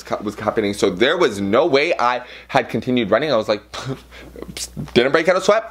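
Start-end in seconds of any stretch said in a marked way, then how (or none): 4.4-4.9 short unvoiced puff of breath; mock winded exhale; pretend puffing. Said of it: "pretended I damn broke out a sweat".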